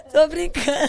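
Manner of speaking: loud laugh, then "just kidding"; real laughter. Real, not acted. Laughing after her own joke. (rindo alto, só brincando)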